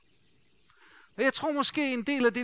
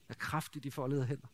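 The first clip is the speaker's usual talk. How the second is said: softer and lower, savouring the phrase; soft reverent repeat; 6 semitones lower, 8 dB quieter than usual. Shown as a demonstration. Preacher repeating the childhood saying to the congregation, soft and hushed. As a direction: let the saying sink in quietly. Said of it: "det er i hvert fald vokset op med".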